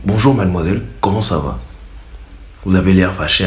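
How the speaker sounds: low, gentle demonstration voice; subtle approach. Shown as a demonstration. Suitor greeting an angry girl, subtle and polite. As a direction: ease in politely, pitched low. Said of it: "Soyez un peu subtil, les gars".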